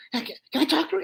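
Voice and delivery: high, brash dummy voice; Joey the dummy. Acted. Dummy flirting with the lady down front, high and brash.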